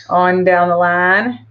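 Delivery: put-on slow, light Southern accent drawl. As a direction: lean into a faked Southern accent. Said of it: "Faking my southern accent there".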